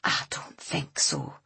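slow, hushed, doubtful reply; low-energy, sceptical refusal; suspicious. A narrator's reading. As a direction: draw it out with suspicion. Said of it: "looked at the cover suspiciously".

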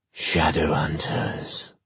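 slow, drawn-out otherworldly; an eerie voice from everywhere; eerie demon voice. Acted. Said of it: "neither male nor female".

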